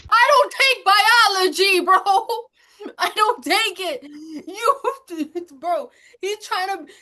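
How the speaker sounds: yelling the line while cracking up; laughing shout. Real, not acted.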